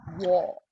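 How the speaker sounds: "war" said with the jaw dropped, open aw; "war" as one open, deliberate syllable; open-jawed pronunciation. Shown as a demonstration. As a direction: model "war" with a wide open mouth. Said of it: "important that you open your jaw".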